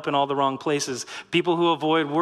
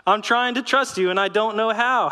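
laughing plea; 6 semitones higher than usual. Retold or imitated. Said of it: "Lord, that doesn't help".

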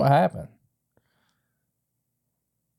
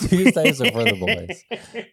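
laughing; 8 semitones higher than usual. Real, not acted. Echoing the boys line, laughing.

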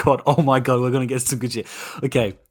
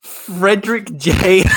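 reading in disbelief; 4 semitones higher, 4 dB louder, slower than usual. Real, not acted. Rereads name in disbelief.

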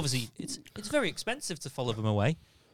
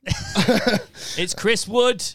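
mock announcement; 7 semitones higher, 7 dB louder, slower than usual. Joking announcement.

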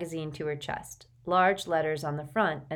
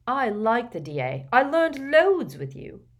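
Neville's voice; 7 semitones higher, 7 dB louder than usual. A narrator's reading. Neville, disappointed.

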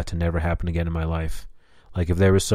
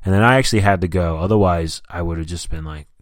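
normal talking voice

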